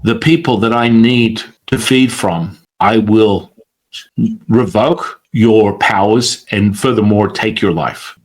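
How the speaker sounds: lightly voiced threat, sinking low by the end; a hint of a dark entity's threat; deep menacing voice. The entity threatening the teacher, mildly menacing deep voice. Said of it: "I've got a very deep voice saying".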